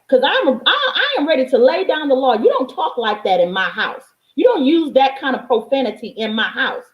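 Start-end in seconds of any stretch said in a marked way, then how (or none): none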